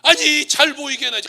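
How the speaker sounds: loud, high mock outburst; imitated indignant comeback; angry retort. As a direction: snap back loudly as the angry driver. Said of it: "화를 버럭 냈는데".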